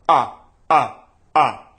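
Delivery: loud, solid ah with tight cords; compressed ah. Shown as a demonstration. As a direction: press each ah firm and clean. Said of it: "Go back and forth between these two sounds".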